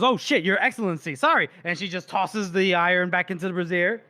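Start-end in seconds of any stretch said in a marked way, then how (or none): 0.0-1.5 lightly acted startled underling; flustered apology. Torturer caught out by the Duke, flustered. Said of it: "She goes".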